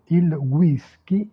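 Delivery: "whisky" said slowly the Italian way, final ee stressed; slow Italian model of "whisky"; Italian pronunciation. Shown as a demonstration. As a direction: say "il whisky" as gwee-SKEE. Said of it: "La prononciation des mots anglais est différente en italien".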